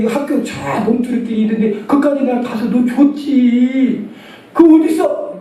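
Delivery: mother's voice. Retold or imitated. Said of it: "그때 우리 어머니가".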